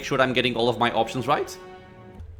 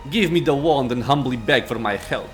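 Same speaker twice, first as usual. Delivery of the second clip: proud, imperious lich; arrogant lich. Acted. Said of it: "Arrogance rings in the lich's voice".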